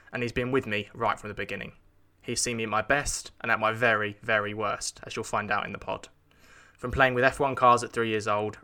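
scripted host introduction, measured and evenly pitched; podcast intro read. Acted. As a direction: read the episode intro to listeners. Reads recorded podcast intro.

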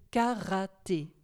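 "karaté" in three separate beats, ka - ra - té; split into syllables. Shown as a demonstration. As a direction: pause between the syllables of "karaté". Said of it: "Le mot recherché est donc".

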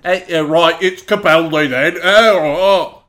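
hammed-up, loud Scottish accent with "Capaldi" as "Capeldey"; a loud, drawn-out fake Scottish brogue; bad Scottish accent. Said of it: "That's not a Scottish accent".

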